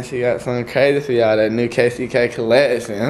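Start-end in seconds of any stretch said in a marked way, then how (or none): none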